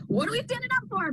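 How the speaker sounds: high, bewildered mock question; puzzled. Class member puzzled when told to stand up. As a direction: play the baffled class member.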